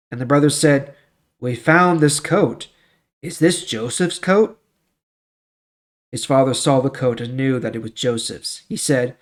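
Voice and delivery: steady, measured storybook narration; Bible story reading. A narrator's reading. Reading Joseph's story to the class, in even storyteller tones. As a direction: read the scripture story to listeners.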